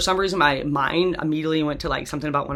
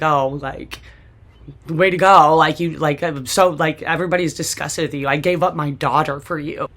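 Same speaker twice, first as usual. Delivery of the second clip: retold angry confronting; 6 dB louder than usual. Mom confronting drunk husband.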